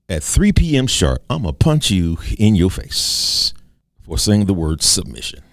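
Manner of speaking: hammed-up threat, punching out the words; mock fight challenge. Triggered person threatens someone over one word, mock fight challenge. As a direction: threaten them like a playground tough. Acting a hot-headed challenge.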